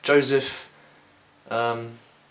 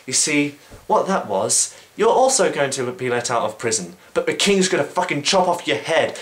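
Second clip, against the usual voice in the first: gleeful doom; 4 semitones higher, 3 dB louder than usual. Retold or imitated. Joseph gleefully gives grim news.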